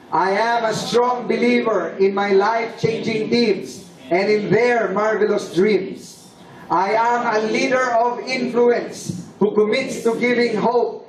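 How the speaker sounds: steady, rhythmic group pledge; recited declaration. Acted. Speaker leading the audience in the Royal Declaration, recited pledge. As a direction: lead the creed line by line.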